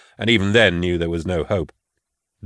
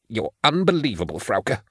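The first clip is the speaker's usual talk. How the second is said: angry hiss; 3 semitones higher, 4 dB quieter than usual. A narrator's reading. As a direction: hiss it, shaking with anger and fright. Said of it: "he hissed".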